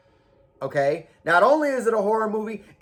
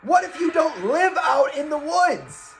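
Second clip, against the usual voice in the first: emphatic shout; 6 semitones higher than usual. Real, not acted. Ranting build-up.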